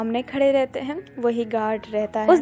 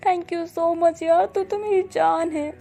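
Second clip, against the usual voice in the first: overjoyed; 5 semitones higher than usual. A narrator's reading. Boss gushes thanks to his assistant, overjoyed. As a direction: pour out delighted gratitude. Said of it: "अब जाओ खुश हो जाता है".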